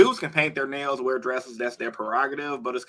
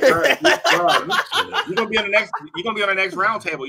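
excited teasing; 7 semitones higher, 5 dB louder than usual. Real, not acted.

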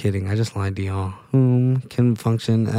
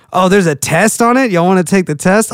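surprised; 5 semitones higher, 6 dB louder than usual. Real, not acted. Surprised at finding a test.

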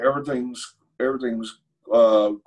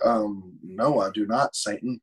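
snappy retort; 4 semitones lower, 6 dB quieter, slower than usual. Retold or imitated. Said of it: "I snapped quick".

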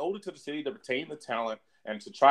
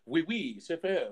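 a quick, softer joking French accent; 3 semitones higher, 5 dB quieter, slower than usual. Shown as a demonstration. Asked by co-host to show his French accent, softer mock French accent. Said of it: "let me see your French accent".

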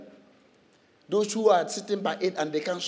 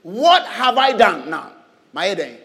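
indignant protest; 5 dB louder than usual. Acted. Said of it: "I like David's reply".

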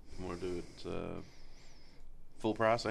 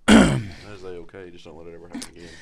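mock boss; 3 semitones lower, 16 dB louder than usual. Mock stern boss scolding.

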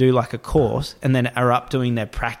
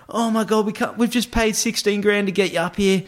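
mock screaming boss; 8 semitones higher than usual. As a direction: imitate a boss panicking over wasted money. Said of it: "starts screaming, going".

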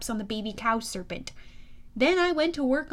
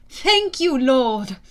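grateful hippocampi; 7 dB louder, much slower than usual. Acted. Hippocampi thanking their lord.

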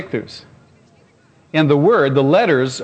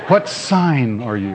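mock serious girl; 3 semitones lower, much slower than usual. Mimicking the girl's solemn question, slow and low. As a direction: drag it out with fake gravity. Repeats her question, mocked.

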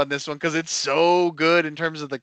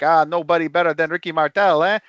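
louder, mock Quebec accent; 5 dB louder, faster than usual. Fan honoring Ricky Martel, mock Quebec accent. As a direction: put on a light Quebec accent, ending on "eh". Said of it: "the Quebec accent".

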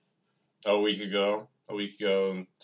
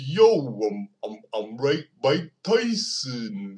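Mike Tyson impression; 3 dB louder, slower than usual. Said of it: "he talks like this sometimes".

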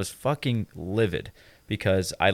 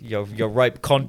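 drawn-out Aussie slang in a put-on accent; hammed-up Australian greeting, slow; mock Australian accent; slower than usual. Podcast host clowning as an Australian, mock Australian accent. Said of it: "Everyone do their best Australian accent".

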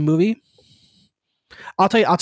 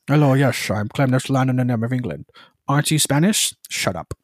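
put-on Scottish accent; 4 semitones lower than usual. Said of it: "Sean Connery's Scottish ass".

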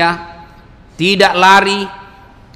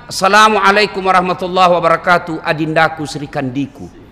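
happy husband greeting. Acted. Husband coming home to his wife, playfully tender. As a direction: greet your wife in full, drawing out the endearments. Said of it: "Alangkah bahagianya suami datang".

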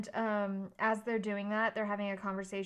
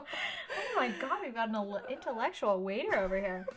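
laughing mock awe. Real, not acted. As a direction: gush jokingly while laughing. Teasing the "smart waiter.

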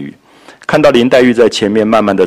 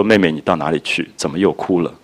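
tender; 4 semitones lower, 4 dB quieter than usual. Retold or imitated. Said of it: "宝玉的语言的温柔啊".

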